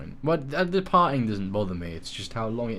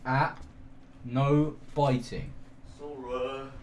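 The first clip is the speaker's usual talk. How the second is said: gentle; much slower than usual. Real, not acted. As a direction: ease the puppy gently. Gentle with puppy.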